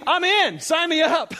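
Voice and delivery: eager sign-up. Acted. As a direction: jump in gladly.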